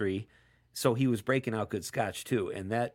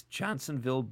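voice crack; 5 dB quieter than usual. Real, not acted. Host reading a listener's text on air, voice cracking. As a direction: voice cracks on Johnsonville. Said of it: "you hear my voice crack there".

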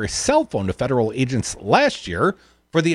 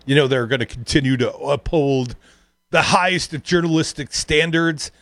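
imitating choked-up reading. Host imitating anchor reading Fox statement, lightly choked. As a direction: mimic an anchor struggling through a statement. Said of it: "choked on that, kinda like".

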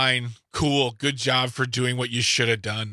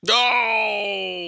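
high, drawn-out cry of disbelief; stretched high-pitched shocked exclamation; scandalized outburst; 8 semitones higher than usual. Real, not acted. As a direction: cut in with a long, appalled no. Interjects at scandalous detail.

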